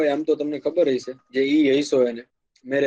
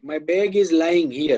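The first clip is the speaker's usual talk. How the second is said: slow example; much slower than usual. Shown as a demonstration. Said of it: "એની માટે લાઇંગ વપરાય".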